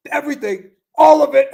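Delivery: high pitched and bursting into a laugh; high, giggly delivery. Acted. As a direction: giggle it out, can't keep a straight face. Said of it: "play my role a little bit differently".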